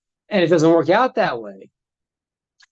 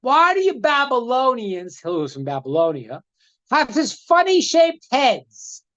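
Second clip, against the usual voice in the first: mocking; 4 semitones higher than usual. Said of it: "And he goes".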